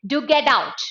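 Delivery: restrained urging with a falling end; softened command. Shown as a demonstration. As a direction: order held back, no shouting. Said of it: "It softened the tone".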